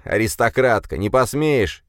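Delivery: parroting her words with a sneer; mocking mimicry. A narrator's reading. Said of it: "Я аристократка, ты не посмеешь".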